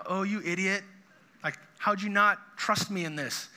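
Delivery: a hint of an impatient put-down; annoyed Jesus. Jesus scolding Peter for sinking, mildly annoyed. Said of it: "Jesus is so annoyed with Peter".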